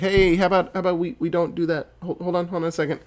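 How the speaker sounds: quick, stumbling imitated objection; hasty pleading. Friends trying to stop him starting the reactor, hasty mock pleading. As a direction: talk them down in a hurry.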